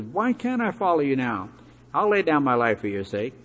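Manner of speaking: mildly upset protest, pitch jumping at the start. Retold or imitated. Peter protesting to Jesus about being left behind, upset. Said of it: "Peter gets upset and says".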